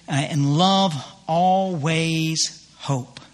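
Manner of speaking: slow, deliberate reading of each verse line; scripture recitation. Acted. Preacher to congregation, slow emphatic scripture reading. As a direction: let every word land like holy writ.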